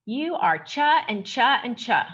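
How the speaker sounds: slow, lightly mocking quote of a friend; measured mock imitation, leaning on each "cha"; mimicking a friend. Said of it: "mimicking Amal".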